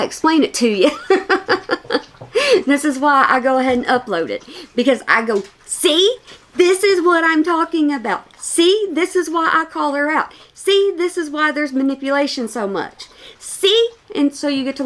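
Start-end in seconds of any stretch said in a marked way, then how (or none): 0.9-2.0 short, high giggle; amused laugh. Real, not acted. Commentator explaining long videos to viewers, high amused laugh. 5.6-13.9 high, insistent told-you-so; vindicated pointing-out. Acted. Commentator showing viewers the proof, high-pitched vindicated insistence.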